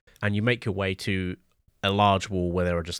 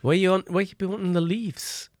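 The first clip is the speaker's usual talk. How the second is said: put-on higher-pitched, suspicious old rustic; aging farmer; 8 semitones higher than usual. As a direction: question them like a puzzled old farmer. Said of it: "aging farmer".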